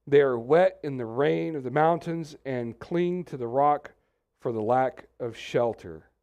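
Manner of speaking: slow, deliberate Bible reading; scripture reading. Acted. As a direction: read the verses slowly, with weight. Reads Job chapter twenty-four aloud.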